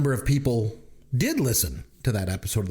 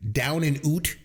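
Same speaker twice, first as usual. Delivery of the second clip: "out" as "oot" in a hammed-up Canadian accent; exaggerated Canadian vowel, "out" said "oot"; mock Canadian accent; 4 semitones higher, slower than usual. Listing movie titles to tease critics, mock Canadian accent. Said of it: "it's because of my Canadian accent".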